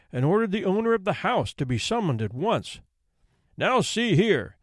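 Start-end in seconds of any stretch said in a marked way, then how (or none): 3.6-4.6 slow, higher bark of a stern judge. Acted. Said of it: "he barked".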